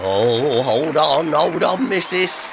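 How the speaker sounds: loud and high, calling out. Real, not acted. Host interrupted, calling out.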